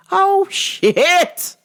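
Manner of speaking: the dread fully hits; panic. Retold or imitated. Facing the tough opponent.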